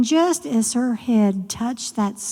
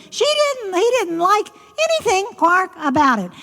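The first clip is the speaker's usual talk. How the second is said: laughing; 10 semitones higher than usual. A narrator's reading. Narrator laughs mimicking frog.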